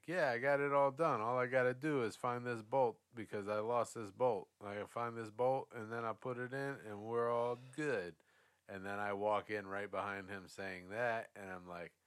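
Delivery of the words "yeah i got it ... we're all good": put-on young mechanic voice. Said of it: "that young guy went in and was like".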